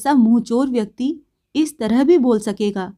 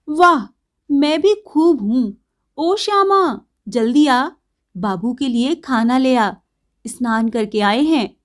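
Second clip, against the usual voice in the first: sudden fluster. Acted. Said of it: "बिजली अचानक चकित होकर उठ खड़ी हुई".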